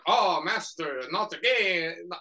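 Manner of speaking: softly attempted servant impression; half-hearted put-on henchman voice; Igor. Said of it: "I can't do his voice".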